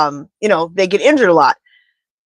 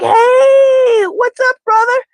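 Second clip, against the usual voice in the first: Hulk Hogan impression; 14 semitones higher, much slower than usual. Retelling Hulk Hogan's greeting to Bear, high and shouted. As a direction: boom it out like a pumped-up wrestler. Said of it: "Hulk Hogan was like".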